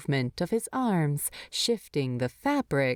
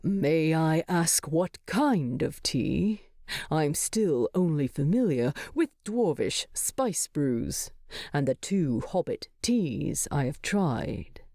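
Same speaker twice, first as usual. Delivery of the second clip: controlled Thorin. Acted. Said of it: "He makes a clear effort to control his tone".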